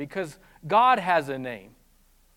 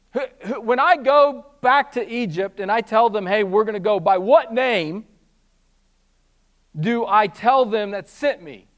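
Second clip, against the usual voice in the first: Moses asking; 4 semitones higher, 7 dB louder than usual. Retold or imitated. Voicing Moses asking God.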